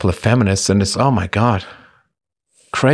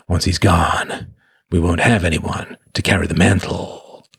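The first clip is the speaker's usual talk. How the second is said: lightly voiced tough guy, measured. Shown as a demonstration. Host reading a viewer's praise, in tough guy voice. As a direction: do a restrained tough-guy read. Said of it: "should we do tough guy voice?".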